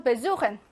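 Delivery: "besuchen" with weak be and stressed su; stress after prefix. Shown as a demonstration. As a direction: lean on the su of "besuchen", not the be. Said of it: "배 강세 못 받아서".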